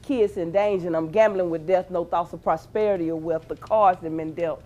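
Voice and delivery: rhythmic, charged poetry reading; spoken word performance. Acted. Poet performing her piece for a live audience. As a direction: perform it like a slam poem.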